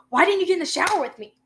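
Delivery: high, loud, fast whiny complaint; put-on voice of an indignant girlfriend; fast, high mock-whine about the shower; imitating the girlfriend.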